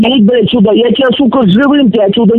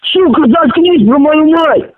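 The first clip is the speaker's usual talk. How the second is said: slow, higher furious command; angry shout; 5 semitones higher, slower than usual. Real, not acted. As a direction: bark it out word by word, slow. Furious defending his mother.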